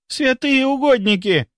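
high, drawn-out cry of shock; shocked exclamation. A narrator's reading. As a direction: exclaim at a horrible sight. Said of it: "воскликнула первая".

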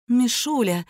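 a touch of sleepy tenderness; tender and sleepy. A narrator's reading. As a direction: murmur it gently as if just woken. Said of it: "пробормотала она нежно и сонно".

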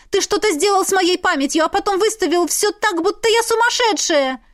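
high, loud angry accusation; accusing. A narrator's reading. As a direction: accuse him furiously. Heroine accuses husband.

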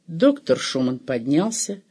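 ordinary delivery

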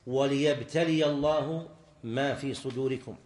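deliberate scriptural quotation; Quranic recitation. Shown as a demonstration. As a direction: recite the verse slowly and firmly. Teacher recites a Quranic verse.

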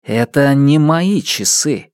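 lightly voiced, rising young accuser; accusing young man. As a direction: press him hard with questions. Isidore answers calmly.

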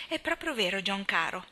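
lightly mock a meek wife agreeing with everything; faded little voice. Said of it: "con quella vocina spenta e incolore".

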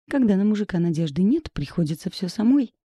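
plain reading voice

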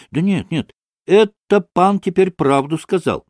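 high, insistent protest; excited outcry. A narrator's reading. Kalganov interrupts to say the pan is right, excited. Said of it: "закричился опять Колганов".

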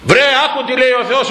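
high, insistent acted plea; exasperated urging. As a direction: urge a stubborn listener to pay heed. Acted plea to a stubborn listener.

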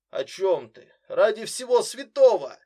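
rising to a loud, high cry; shocked plea. A narrator's reading. Brother begs his sister in shock, loud and pleading. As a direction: push from a question into a loud, pleading outcry.

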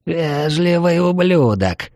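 hissed scorn, slow and high; hissing elf prisoner. Acted. Captive elf mother hisses at the polite ranger, high and slow. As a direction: spit the insult slowly through the bars. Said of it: "прошипела она".

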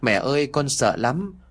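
mock sobbing plea, understated; whimpering through tears. A frightened son whimpers to his mother, mildly teary. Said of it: "Vừa khóc nó vừa nói mếu máo".

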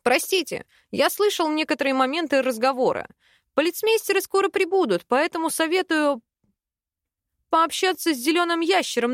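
put-on quick, eager young man's voice; lightly voiced eager student. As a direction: rattle it off, helpful and quick. Student Rostin's voice.

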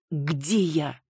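ordinary delivery

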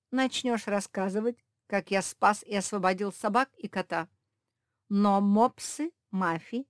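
loud, scornful cat villain; loud domineering villain cat; mocking villain cat. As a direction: sneer at the foolish friends and order Lizzie. Villain cat Antoine speaks.

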